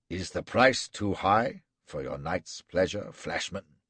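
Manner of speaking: menacing captor. Acted. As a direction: savor every cruel word. Gul threatening.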